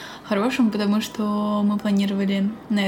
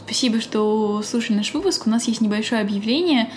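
hoarse voice from a cold; sick voice. Real, not acted. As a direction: speak through a sick, hoarse voice. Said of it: "извините за мой голос".

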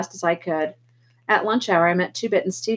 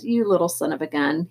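relieved; 4 semitones lower than usual. Acted. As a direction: let the tension go. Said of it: "he said in a relieved voice".

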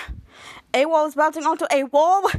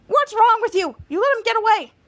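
high, raised-voice reproach; exasperated scolding; 7 semitones higher, 5 dB louder than usual. Acted. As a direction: tell off a useless teammate. Captain scolds teammate.

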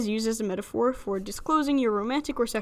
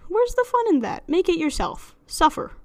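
playful high teasing; 7 semitones higher than usual. Acted. Joking command to bake.

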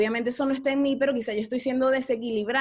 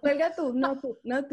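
playful lovers' no-you-hang-up; coy, teasing back-and-forth; giggly late night call. Acted. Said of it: "como las novias".

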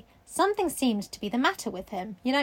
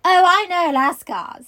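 put-on girl voice; 6 semitones higher, 8 dB louder, slower than usual. Sarah voiced in reading.

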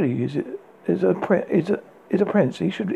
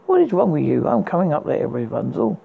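impatient hiss. Acted. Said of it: "he hissed impatiently".

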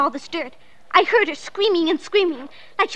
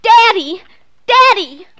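put-on loud, urgent child's call; 2 semitones higher, 9 dB louder, slower than usual. Girl shouts after her departing Daddy, calling out. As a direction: shout after someone walking away.

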